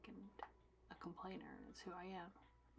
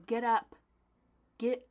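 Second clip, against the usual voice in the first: loud, higher joking order; mock command; 4 semitones higher, 11 dB louder, slower than usual. Host jokingly ordering viewers to get up, mock command. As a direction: playfully order them up. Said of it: "I'm just kidding".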